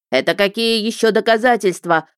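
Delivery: high, loud shriek of a question; shrill indignant cry; squeal. Acted. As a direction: squeal in outrage. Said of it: "взвизгнул Ихтиар".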